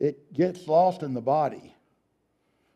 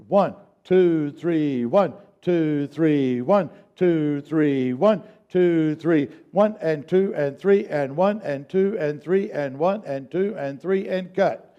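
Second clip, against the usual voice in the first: faster counting; slower than usual. Shown as a demonstration. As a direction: pick up the count. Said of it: "Now let's speed it up".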